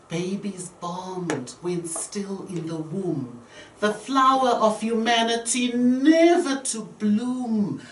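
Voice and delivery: slow, solemn poem reading with a whispered close; poem recital. Shown as a demonstration. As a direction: recite it slowly, letting the last lines fade to a whisper. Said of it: "I wrote this poem, which says".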